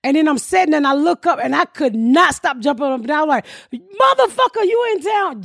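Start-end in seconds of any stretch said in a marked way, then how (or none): 3.7-5.4 retold surprise. Surprise at friend arriving.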